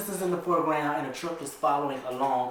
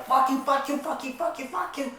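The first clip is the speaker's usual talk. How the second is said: repeated curse; 10 semitones higher than usual. Acted. Lucky cursing as door shuts.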